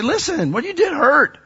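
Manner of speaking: stern confrontation. Retold or imitated. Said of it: "I go to people all the time and I say".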